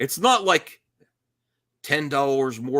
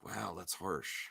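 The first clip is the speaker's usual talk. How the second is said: deadpan; 7 semitones lower, 17 dB quieter, slower than usual. Real, not acted. Deadpan aside.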